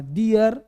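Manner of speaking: "दियर" with the final r pronounced; wrong DIYAR. Shown as a demonstration. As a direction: let the r be heard at the end of "दियर". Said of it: "दियर नहीं बोलना". ("दियर" में आख़िरी र साफ़, गलत उच्चारण)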